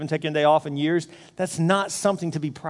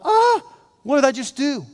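high yelp of sudden regret; hammed-up horrified realization, pitched up; mock dismay; 7 semitones higher than usual. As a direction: cry out in acted panic at your own mistake. Acts out regret after agreeing.

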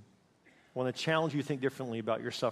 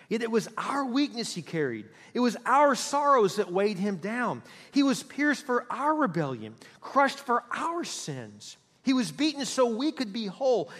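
solemn scripture reading; 4 semitones higher than usual. Acted. Reads Scripture aloud to congregation.

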